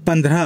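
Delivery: পন্দ্রহ said as Hindi pandrah; careful Hindi pandrah; Hindi pronunciation. Shown as a demonstration. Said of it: "Hindi উচ্চারণ পন্দ্রহ".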